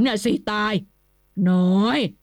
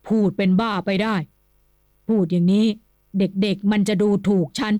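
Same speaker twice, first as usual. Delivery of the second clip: gruff, louder, irritated husband's voice; resentful retort; 4 dB louder than usual. A narrator's reading. Old nobleman rebuking his wife, resentfully loud. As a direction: snap back at his wife, offended. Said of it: "พูดขึ้นอย่างเคืองๆ".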